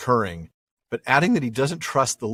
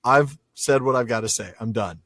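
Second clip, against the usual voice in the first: higher, hammed-up boast with a laugh; mock boastful orc; 4 semitones higher, 3 dB louder than usual. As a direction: play the self-important boss. Paraphrasing Ugluk's boast.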